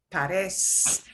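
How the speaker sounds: "parez-" cut after a long s; S sound. Shown as a demonstration. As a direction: hold the final s of "parez-". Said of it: "that zeta conveys that S".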